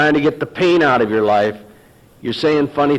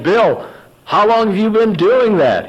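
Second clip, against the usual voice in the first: much higher, eager and curious; eager question; 9 semitones higher, 3 dB louder than usual. Retold or imitated. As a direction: jump at the bait, eager to know. Takes the bait, eager question.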